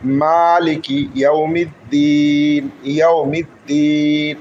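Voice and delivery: drawn-out chanted recitation of the verse; slow Quran recitation. Shown as a demonstration. Teacher reciting the verse for students to follow, slow chant. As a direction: chant it slowly, holding each vowel.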